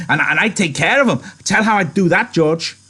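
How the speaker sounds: put-on high, loud childlike eagerness; eager. A narrator's reading. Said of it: "Lenny said eagerly".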